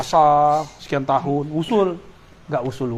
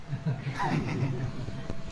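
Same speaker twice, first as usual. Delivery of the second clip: low, quiet laugh; soft chuckle; 3 semitones lower, 13 dB quieter than usual. Real, not acted. Teacher amused by his own aside, soft chuckle. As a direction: chuckle softly to yourself.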